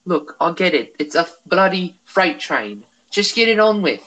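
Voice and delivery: Sherlock Holmes style British voice; posh British accent. Shown as a demonstration. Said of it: "what I call Holmes".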